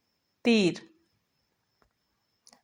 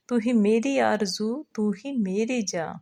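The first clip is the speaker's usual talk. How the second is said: the same lines again, a little quicker and fuller; repeated recitation. Acted. Teacher repeating the verse for the second member, sing-song.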